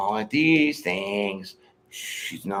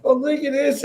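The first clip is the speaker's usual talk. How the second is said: pitched way up, delighted over the gift; excited; 14 semitones higher, 3 dB louder than usual. Retold or imitated. She retells showing the birthday blanket on stream, excited. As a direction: squeal over an odd present.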